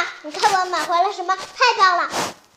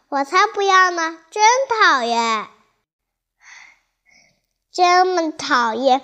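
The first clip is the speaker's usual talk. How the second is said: mock angry quarrel; 5 dB louder than usual. Toy characters quarrelling.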